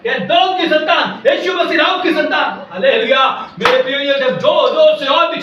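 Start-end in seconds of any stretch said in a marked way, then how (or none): 0.0-2.7 high-pitched retold appeal; imitated crying out. Blind man calls to Jesus over the crowd, imitated crying out. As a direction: call out over the scolding crowd. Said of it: "बड़े बड़े जोर से चिल्लाने".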